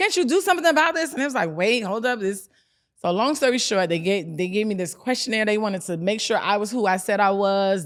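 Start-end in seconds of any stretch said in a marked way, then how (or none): 0.0-1.1 very high, frantic, desperate scream. Retelling begging the lawyers in the office to act: retelling her own screaming. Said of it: "I'm I'm screaming at them".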